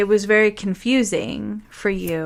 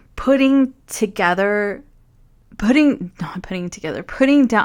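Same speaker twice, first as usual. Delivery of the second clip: overcome, fumbling the words, about to cry. Reading tarot cards aloud, about to cry. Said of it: "I'm gonna cry".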